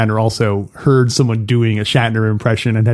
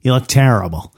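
lightly voiced mob boss with a presidential twang; a hint of a politician playing godfather; mock godfather, lightly put on; George W. as Don Corleone. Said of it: "try to do George W. doing, as Don Corleone".

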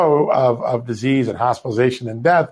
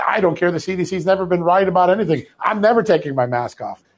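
higher, insistent retelling of a rant; mild mock yell; 6 semitones higher than usual. Stranger refusing to heed CDC advice, mild mock yell. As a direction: imitate a defiant stranger, pitched up. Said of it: "started yelling at me".

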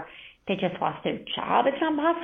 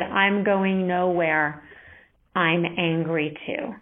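gentle friend comforting; much slower than usual. Retold or imitated. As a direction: quote the friend slowly, tenderly. Friend comforting her in grief.

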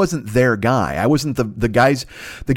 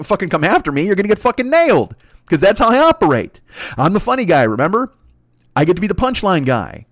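higher-pitched, swaggering comic taunt; cocky roasting; 4 semitones higher than usual. Retold or imitated. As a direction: lay into him like a cocky insult comic. Comic acts out lunchtime roast.

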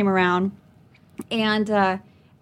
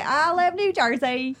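higher, drawn-out fake New York accent; joke New York accent; 5 semitones higher, slower than usual. Comic riffing on her own bad accent, joke New York accent. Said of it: "That's my New York accent".

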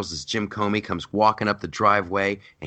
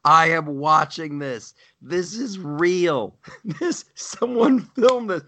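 incredulous viewer; 8 semitones higher, slower than usual. Retold or imitated. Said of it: "you're like".

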